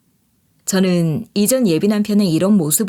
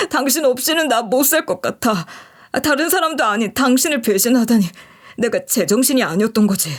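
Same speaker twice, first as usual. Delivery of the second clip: pleading ex-fiancé; 2 semitones higher than usual. Acted. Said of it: "저한테 이렇게 호소해댔어요".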